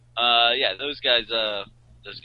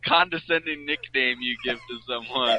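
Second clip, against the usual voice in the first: laughing; 9 semitones higher, 8 dB louder than usual. Real, not acted. Laughing at the nickname.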